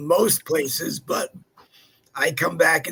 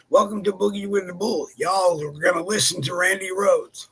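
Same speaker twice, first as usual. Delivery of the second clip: mock Southern announcer; 2 semitones higher, 3 dB louder than usual. Co-host introducing Colonel Randy Rhoads, mock Southern announcer. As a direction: announce it with a playful twang.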